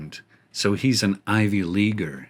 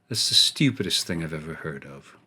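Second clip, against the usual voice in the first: a hint of a snooty pop-singer-trying-to-be-British accent, said softer; snobby Ivy League voice; 6 semitones lower, 7 dB quieter than usual. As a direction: sneer it out like a fake-British snob. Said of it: "the worst Ivy League voice".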